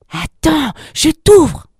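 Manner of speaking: high-pitched, loud cat voice; urgent cat. A narrator's reading. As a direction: call it out quickly to help. Cat urgently reassures trapped lamb.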